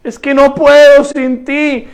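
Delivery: drawn-out, pleading prayer, as if through tears; acted tearful prayer. Worshipper admits defeat to God after two lost battles, tearful pleading. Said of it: "con lágrimas".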